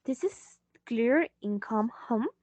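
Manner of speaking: ordinary delivery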